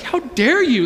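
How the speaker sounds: high-pitched mock outrage; acted indignant girlfriend. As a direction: play a hurt lover demanding an answer. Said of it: "She's gonna say something like this".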